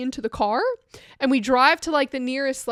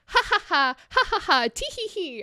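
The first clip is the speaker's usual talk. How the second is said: mock tickled giggle; 5 semitones higher than usual. Retelling being tickled.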